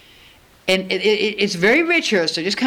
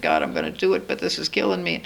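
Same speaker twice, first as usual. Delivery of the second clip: weary groan; 4 semitones lower, 4 dB quieter than usual. Retold or imitated. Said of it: "I had a lot of questions".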